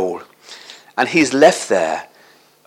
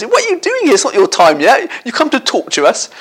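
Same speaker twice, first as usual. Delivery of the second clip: shrill, high demon cry that eases down; 10 semitones higher than usual. Acted. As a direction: let the demons shriek the first words, then settle.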